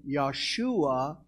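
"Yahshua" begun with a Y sound; Hebrew pronunciation. Shown as a demonstration. Preacher giving the Hebrew word for Joshua, "Yahshua" pronounced with a Y. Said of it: "The Hebrew word for Joshua is".

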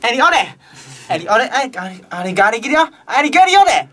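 fake Ugandan language. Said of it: "それっぽいウガンダ語で".

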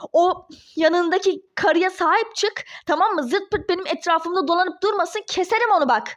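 heated threatening rant; angry yelling. Acted. Ex-wife threatens Ali about his fiancée, yelling angrily. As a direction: warn him off angrily. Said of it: "Bağırıp durma".

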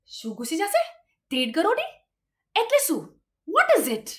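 baffled string of questions; puzzled, rising questions; acted bewilderment. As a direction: ask as if totally lost. Acted bewildered reply to the warning.

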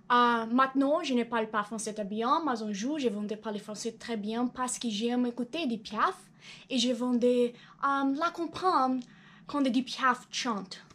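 speaking French carefully as a learner; learner's French. Shown as a demonstration. Showing his French study, careful learner's French. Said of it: "As you can see, I'm learning".

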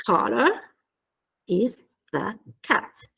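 slow, pauses between COLOR, IS, THE, CAT; word-by-word. Shown as a demonstration. Teacher pointing out each word, word by word. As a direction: give each of COLOR IS THE CAT its own beat. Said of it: "parole che invece vengono ridotte".

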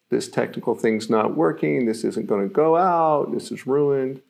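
panicky. Shown as a demonstration. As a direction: act as if all is lost. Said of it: "the second version is a panicky".

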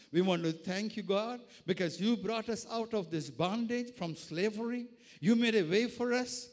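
prayer of thanks building in force; fervent prayer. Real, not acted. Preacher thanking God for freedom, fervent prayer.

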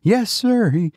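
very high-pitched, anxious retainer; high, alarmed servant; old servant, agitated. A narrator's reading. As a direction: answer the master in a high, agitated voice. Voices the frightened servant.

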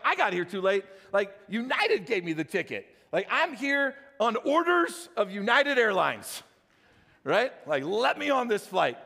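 incredulous retold protest, words stretched for emphasis; indignant protest. Traveler protesting to the airline agent, indignant. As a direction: argue back in disbelief, leaning on key words.

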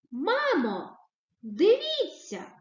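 high, eager call to mum; exclamatory. Shown as a demonstration. Teacher reads a child calling to mum, excitedly. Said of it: "Так, з окличною".

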